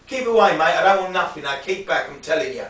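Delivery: loud commanding warning; authoritative. Shown as a demonstration. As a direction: bark him back, no room for argument. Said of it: "You've got to be more authoritative".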